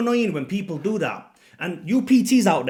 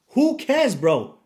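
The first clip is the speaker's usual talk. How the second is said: much higher, louder dismissive burst; exasperated outburst; 8 semitones higher, 5 dB louder, much slower than usual. Real, not acted. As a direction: blurt it out in disgust. Ranting at gym-goers.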